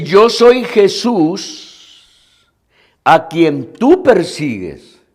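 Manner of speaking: lightly voiced, drawn-out divine declaration; slow scriptural pronouncement with long pauses; voice of Jesus. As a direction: proclaim it slowly, stretching the words as the Lord. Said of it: "el Señor le dice".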